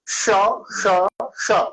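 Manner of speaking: श with the tongue curled back; retroflex sha. Shown as a demonstration. Teacher demonstrating the retroflex श from ऋषि. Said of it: "ऋषि वाला सा जब मैं बोल रहा हूँ".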